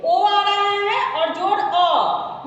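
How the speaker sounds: slow explaining. Shown as a demonstration. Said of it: "तो पवन में क्या आ रहा है, इसे देखिए".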